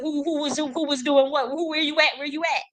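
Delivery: high pitched dare to hiding enemies; where are you, come out; taunting call-out. Pretend. Calling out to hidden enemies.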